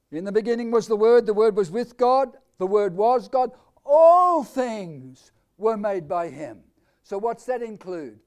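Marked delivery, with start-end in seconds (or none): 0.1-6.6 loud proclaiming. Acted. Preacher proclaiming scripture.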